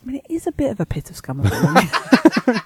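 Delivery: laughing while conceding the point; amused disbelief. Real, not acted. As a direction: chuckle through the words.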